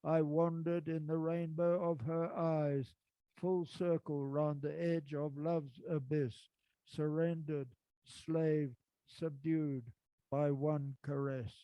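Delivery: slow, lingering poetry reading; poem recitation. Acted. Reciting his old love poem to listeners, slow and lingering. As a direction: savour each line of the love poem.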